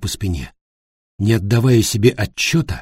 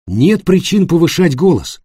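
placating; 7 semitones higher, 4 dB louder than usual. A narrator's reading. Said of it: "попытался утихомирить его".

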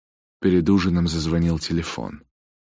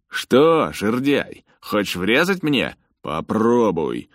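high, loud mocking dare; jeering taunt; 7 semitones higher, 6 dB louder, slower than usual. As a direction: goad him into a fight. Bully taunts Lewis.

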